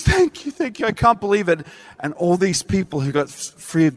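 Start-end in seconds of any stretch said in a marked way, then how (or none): 0.0-1.7 high, breathless thanks; grateful woman. Retold or imitated. Freed woman thanking the preacher, high and grateful. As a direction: voice her gushing relief.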